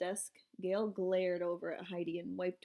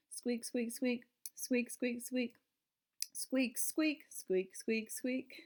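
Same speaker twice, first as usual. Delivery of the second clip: chair squeaks; 3 semitones higher, much slower than usual. A narrator's reading. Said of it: "It sounded like jingle bells".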